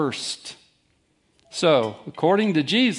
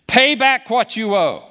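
harsh demand; 6 semitones higher, 6 dB louder than usual. Acted. Master demanding debt repayment.

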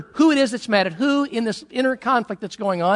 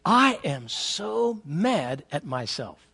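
mock self-reproach; 3 semitones lower, 7 dB quieter, much slower than usual. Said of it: "how many times have you said this".

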